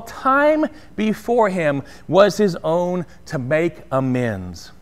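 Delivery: expressive reading of a Dickens passage; story reading. A narrator's reading. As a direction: read the classic aloud with feeling. Reads Dickens passage aloud.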